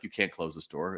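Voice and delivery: the voice in his head says no; inner warning voice. Retold or imitated.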